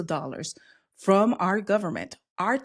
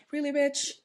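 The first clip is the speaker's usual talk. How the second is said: sassy disbelief; 7 semitones higher than usual. Real, not acted. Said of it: "I never talk like this in public".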